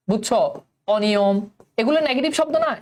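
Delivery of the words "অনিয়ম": অনিয়ম with an open "aw" at the start; open অ kept. Shown as a demonstration. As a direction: model অনিয়ম in a lower pitch, first vowel open. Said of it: "স্বরের উচ্চারণ স্বরেয়ই থাকে".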